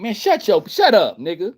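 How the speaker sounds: mock angry snap. Snapping at the ant.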